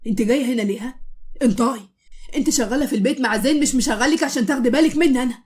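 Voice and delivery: angry, loud scolding; yelling at her. Acted. Husband scolds his wife to her face, angry yelling. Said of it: "عمال يزعق في وشها".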